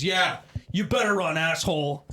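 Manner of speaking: loud mock taunt. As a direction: jeer after him. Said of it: "the guy goes".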